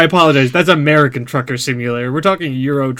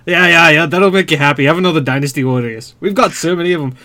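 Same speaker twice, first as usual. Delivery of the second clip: put-on Scottish accent. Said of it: "Konami comes back and says".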